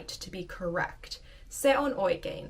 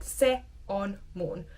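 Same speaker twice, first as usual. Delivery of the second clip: word by word. Shown as a demonstration. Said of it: "I'm not stopping so distinctly".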